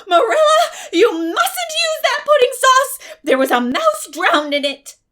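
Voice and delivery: shrieked high and very loud with a sob. Retold or imitated. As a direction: shriek the warning across the table. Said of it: "shrieked out".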